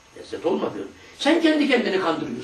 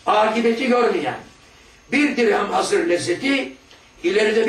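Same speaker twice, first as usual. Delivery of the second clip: slow, measured recitation of the book; solemn text reading; 2 semitones higher, slower than usual. Acted. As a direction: read it like a sacred text, drawn out. Rereads the passage aloud.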